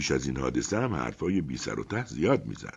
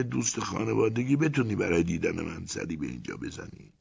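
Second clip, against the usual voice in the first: calm and cool; 8 semitones higher than usual. A narrator's reading. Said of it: "آرام و خونسرد گفت".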